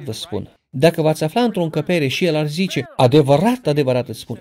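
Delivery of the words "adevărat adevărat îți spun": with passion. Shown as a demonstration. Jesus speaking in a room, saying it with passion. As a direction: say Adevărat, adevărat with urgent passion. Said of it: "ar însemna că vorbește cu pasiune".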